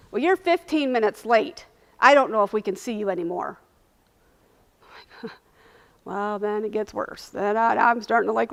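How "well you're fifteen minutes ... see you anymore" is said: mildly mocked curt receptionist, a bit louder; dismissive, rude. Receptionist to late, crying patient, dismissive and rude. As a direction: imitate a receptionist brushing someone off. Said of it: "she was so dismissive and so rude".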